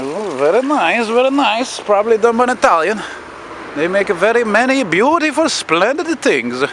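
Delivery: mock admiration. Mock Italian appreciation voice.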